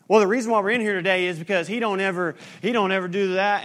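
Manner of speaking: loud and fast, finger-pointing gripe; complaining spouse. Retold or imitated. Pastor imitating a spouse blaming the other in counseling, loud fast gripe. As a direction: rattle off the complaint like an accusing spouse.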